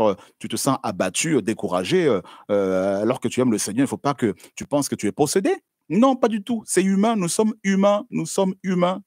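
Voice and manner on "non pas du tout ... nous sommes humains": fervent insistence. Real, not acted. Preacher insisting, raised pitch.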